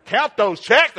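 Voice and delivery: high, loud crowing; exultant shout. Real, not acted. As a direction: crow it like counting the money. Exultant punchline at the congregation.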